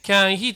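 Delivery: "can he" as separate "kyan hii"; loud "can he", each word apart; unlinked mispronunciation. Shown as a demonstration. Teacher shows a mistake, "can he" unlinked. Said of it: "これは間違いですので".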